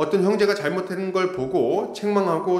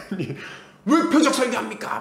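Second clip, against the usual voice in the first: accusing protest; 6 semitones higher than usual. Retold or imitated. Congregant accusing the pastor of a targeted sermon, indignant. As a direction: let the member's complaint bite. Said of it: "뭐 이렇게 얘기를 하는 거예요".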